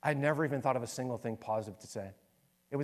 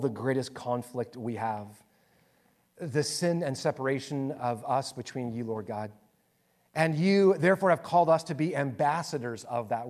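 earnest prayer. Real, not acted. Pastor praying for the church to face conflict, earnest prayer. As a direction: address God directly, pleading in rising phrases, then easing down to amen.

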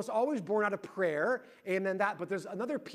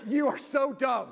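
exasperated berating; 6 semitones higher, 6 dB louder than usual. Retold or imitated. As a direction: imitate a wife rubbing it in, word by word. Wife berates him, retold.

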